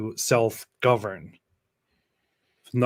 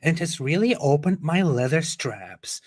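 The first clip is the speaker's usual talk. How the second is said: put-on white girl voice; 4 semitones higher than usual. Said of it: "read it in a white girl's voice".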